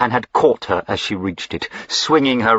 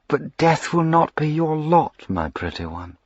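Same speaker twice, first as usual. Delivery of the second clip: sinister purr; 9 semitones higher than usual. A narrator's reading. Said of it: "purred the sinister voice in her ear".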